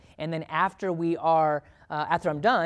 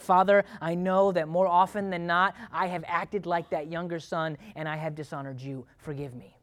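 humble prayer. Retold or imitated. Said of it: "prompted to pray in that moment".

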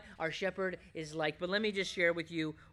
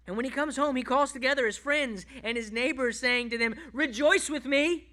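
high, loud joyful scripture reading; raised, ringing pulpit voice; exultant preaching; 7 semitones higher, 8 dB louder than usual. Acted. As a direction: proclaim the good news to the whole crowd. Preacher reads parable at full force.

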